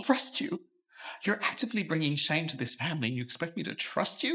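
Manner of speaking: scornful father. Acted.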